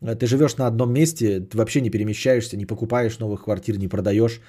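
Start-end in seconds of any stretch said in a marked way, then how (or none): none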